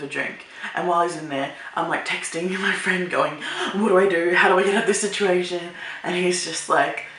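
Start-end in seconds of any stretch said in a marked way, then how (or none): 3.8-5.6 louder, hurried plea for help; playfully panicked, rushing to the end; mock panic. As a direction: act out a frantic cry for advice. Retold frantic text to a friend.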